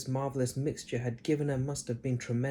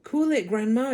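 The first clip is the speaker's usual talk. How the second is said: George; 10 semitones higher, 7 dB louder than usual. A narrator's reading. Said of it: "George said".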